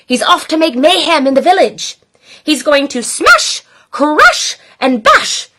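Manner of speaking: gleeful mayhem; crying. Acted. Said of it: "cried Gloom and Doom".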